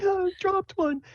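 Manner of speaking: very high falsetto exclamation; dismayed Sable. Acted. Sable drops one of her mushrooms, dismayed high voice. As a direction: squeak it in small dismay. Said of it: "She's like".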